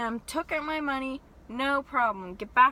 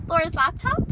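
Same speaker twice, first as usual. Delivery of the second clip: chirpy worker; 5 semitones higher, 7 dB louder than usual. Retold or imitated. Elf worker hands bag.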